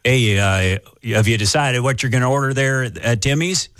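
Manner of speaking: small-town Ontario Canadian drive-through clerk; lightly hammed-up Canadian accent, taking an order. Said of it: "doing a weird accent".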